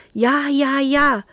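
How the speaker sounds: high, eager crow; eager kitten crowing yes; crowing eagerly. A narrator's reading. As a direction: crow the yeses like a hungry kitten. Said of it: "krähte Nero".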